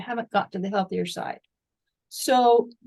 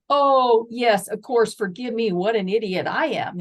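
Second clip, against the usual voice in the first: sudden realization; 5 dB louder than usual. Retold or imitated. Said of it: "I was like".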